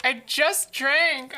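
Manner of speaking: exasperated I just drank; emphatic. Real, not acted. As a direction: lean on it, pushing back. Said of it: "repeats it loud, then whispers".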